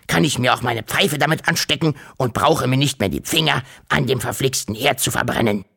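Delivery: lightly voiced uncle lecturing impatiently; grumpy, excited uncle. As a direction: explain with rising eagerness, a touch cranky. Acts the grumpy uncle explaining. (leicht miesepetriger, eifrig erklärender Onkel)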